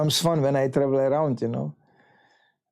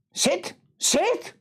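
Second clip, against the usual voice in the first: commanding shout. Retold or imitated. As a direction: bark it like a matron who won't take no. The lady ordering him to sit.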